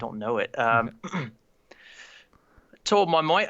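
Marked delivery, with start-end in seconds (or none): 2.8-3.5 put-on Aussie accent, higher; badly faked Australian vowels; amateur Australian accent; attempted Australian accent. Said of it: "between English and Aussie".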